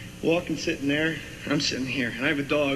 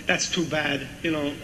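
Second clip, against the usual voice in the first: Walken impression. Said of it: "Walken goes".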